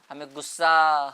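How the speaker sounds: whispered ہمیں غصہ, breath only. Shown as a demonstration. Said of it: "یہ سب سے اہم پوائنٹ ہے". (ہمیں غصہ سرگوشی میں)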